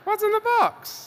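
high, wailing movie quote; Brad Pitt. Retold or imitated. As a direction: wail it in anguish. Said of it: "In the words of Brad Pitt".

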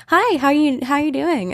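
mom voice. Retold or imitated. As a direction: play a cheerful oblivious mom. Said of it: "And she goes".

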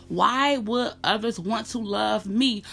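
pained questioning. Retold or imitated. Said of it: "And then you question".

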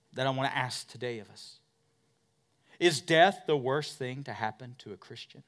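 ordinary delivery

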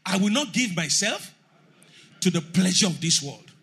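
loud declaration to God; loud prayer. Real, not acted. Congregation led in prayer, loud and firm. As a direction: pray it out loud with resolve.

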